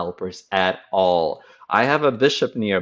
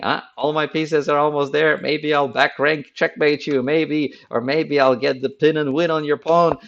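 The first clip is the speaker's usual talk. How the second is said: higher, hopeful scheming voice; scheming opponent; 5 semitones higher than usual. Retold or imitated. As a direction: daydream about tricks. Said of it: "He's thinking".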